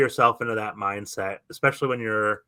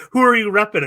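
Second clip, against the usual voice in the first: louder, higher tough inmate challenge; 10 semitones higher, 10 dB louder than usual. Retold or imitated. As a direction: bark it like a hard prison inmate. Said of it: "somebody that's like".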